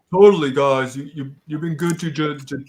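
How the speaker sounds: teeth-chattering stutter from the cold; shivering stutter. Acted. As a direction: stammer it like you're freezing. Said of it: "because I'm cold and I'm shivering".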